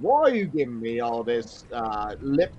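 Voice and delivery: put-on cheeky south London accent, rising on governor; affronted passenger in put-on London accent; fake London accent. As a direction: play the cockney wide boy. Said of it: "accept that accent as being authentic".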